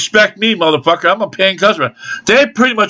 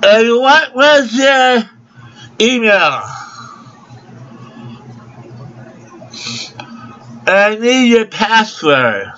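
slow, higher put-on clerk voice; mocking impression; 4 semitones higher, slower than usual. Customer making fun of the clerk asking for email, slow mocking voice. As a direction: drag out the clerk's questions in mockery. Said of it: "even though I am now".

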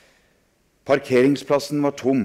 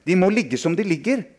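higher, louder stammering shout; 9 semitones higher, 4 dB louder than usual. Acted. A boy shouts at friends to stop, in alarm. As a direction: cry out to stop the boys. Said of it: "ropte jeg".

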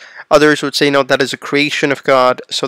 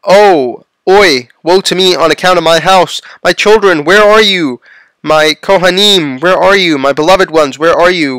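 raised, mildly acted lament; crying out in woe; 3 semitones higher, 4 dB louder than usual. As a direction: call out for lost children in grief, lightly acted. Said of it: "cried and said".

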